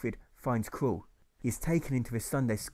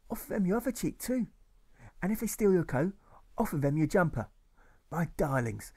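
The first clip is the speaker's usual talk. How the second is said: high, sugary preachy teacher voice; Sunday school teacher; 7 semitones higher than usual. Acted. Teacher lecturing her pupils on loving enemies, sugary. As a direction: coo the lesson like a saintly teacher. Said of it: "she says".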